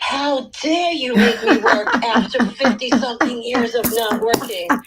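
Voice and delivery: hammed-up indignant yell; indignant yelling body. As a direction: scold loudly as an outraged, overworked body. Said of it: "my body is yelling at me".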